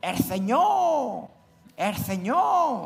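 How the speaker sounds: put-on crazed, frantic yelling, very high, "Señor" stretched. Retelling how the preacher jumped up during the dig, retelling a possessed shout. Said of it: "empieza a gritar como un poseso".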